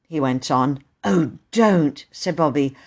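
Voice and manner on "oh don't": understated plea, in an everyday register; gentle remonstrance. Acted. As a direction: mildly beg him not to. Bobby mildly objects to Peter.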